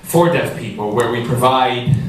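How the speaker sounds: talking while short of breath; winded, catching breath between words. Real, not acted. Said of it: "I'm out of breath now".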